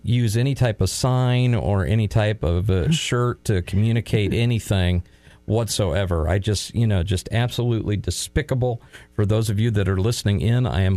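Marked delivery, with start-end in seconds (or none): 0.0-5.0 mock outrage, deadpan; feigned disgust; sarcastic. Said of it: "So all said in great sarcasm". 5.4-8.8 mock outrage, deadpan; feigned disgust; sarcastic. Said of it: "So all said in great sarcasm".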